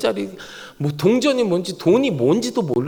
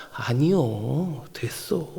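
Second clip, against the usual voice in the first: low, slow, soft brush-off; modest refusal; 7 semitones lower, 7 dB quieter, much slower than usual. Acted. God politely declines David's offer, slow soft refusal. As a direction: wave it away gently, drawn out. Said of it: "딱 이거예요".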